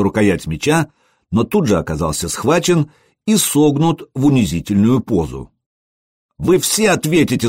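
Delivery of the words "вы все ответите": high, shrill-pitched yelled threat; yelling threat. Acted. Humiliated lad yelling at the warriors in a high outcry. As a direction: scream it at the laughing crowd. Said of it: "завопил он".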